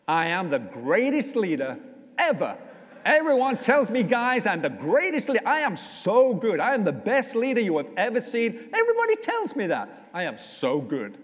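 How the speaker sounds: mock a self-adoring politician boasting to a crowd; puffed-up arrogant leader impression; boastful leader. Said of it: "he makes a living out of arrogance".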